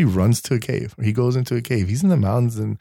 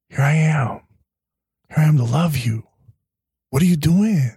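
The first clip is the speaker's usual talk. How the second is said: tender God; 7 semitones higher than usual. Retold or imitated. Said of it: "the softness and love that he has".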